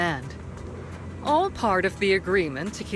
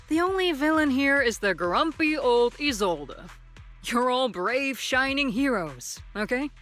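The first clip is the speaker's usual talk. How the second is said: higher-pitched placating tone; 5 semitones higher than usual. Acted. Commander settling bickering kids, placating and higher-pitched. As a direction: humor them like squabbling children.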